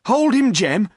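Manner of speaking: sharp loud call; urgent order. A narrator's reading. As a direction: landlord ordering the poacher. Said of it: "said the landlord to the poacher".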